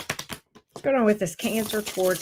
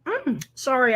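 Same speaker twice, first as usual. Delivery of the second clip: talking around ice in mouth; mouth full of ice; 3 semitones higher than usual. Real, not acted. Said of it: "I had ice in my mouth".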